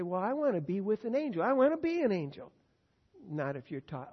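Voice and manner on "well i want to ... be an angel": mock wish.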